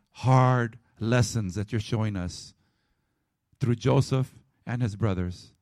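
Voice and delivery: closing prayer. Acted. Pastor praying for the church after the sermon, hushed.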